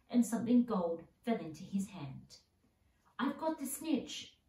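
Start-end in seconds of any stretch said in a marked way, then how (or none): 3.2-4.4 high, slow triumphant shout. A narrator's reading. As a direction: call it out high and drawn out, holding up the prize. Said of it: "he shouted".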